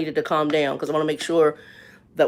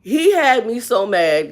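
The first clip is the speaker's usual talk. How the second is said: still angry; 4 semitones higher, 4 dB louder, slower than usual. Real, not acted. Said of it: "I'm physically shaking".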